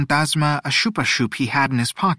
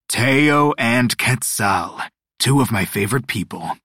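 booming voice. Acted. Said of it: "came the booming voice of Dios Mala Suerte".

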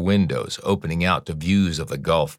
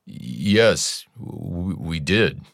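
voice breaking; much slower than usual. Acted. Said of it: "His voice breaking".

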